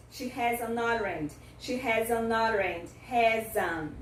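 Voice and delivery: HAS AN joined as 'ha-zun'; teacher's demo linking HAS AN ORANGE; reduced, linked pronunciation. Shown as a demonstration. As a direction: run HAS AN ORANGE together with a weak AN. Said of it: "Deu pra entender a pronúncia reduzida?".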